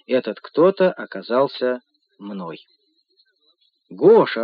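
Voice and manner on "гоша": joyful louder call. Acted. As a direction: greet him with delight. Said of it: "радостно ответила она". (радостно, звонко)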